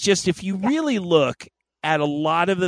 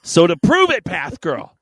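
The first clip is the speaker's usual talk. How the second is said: dramatic storyteller voice; 3 semitones higher, 4 dB louder than usual. Acted. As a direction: tell it like an old legend. Grand segment narration.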